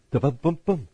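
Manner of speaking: vocal drum sting after a joke; mock rimshot. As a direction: imitate a drummer's punchline sting. Mimics drum sting after pun.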